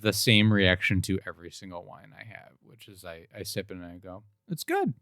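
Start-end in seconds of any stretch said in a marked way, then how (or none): 4.5-4.9 tiny, very high-pitched verdict; mock approval. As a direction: squeak out a softer, noncommittal wine verdict. Acts out stock wine reaction.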